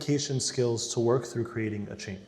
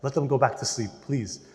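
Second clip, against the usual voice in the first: quiet prayer; 3 semitones lower, 5 dB quieter than usual. Retold or imitated. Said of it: "you pray".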